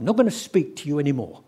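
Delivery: put-on sulky teenager. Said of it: "He's like a sulky teenager".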